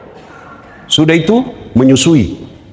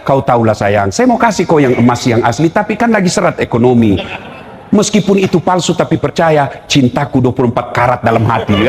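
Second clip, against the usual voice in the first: mock sweet-talk; 4 semitones lower than usual. Husband coaxing wife over fake gold.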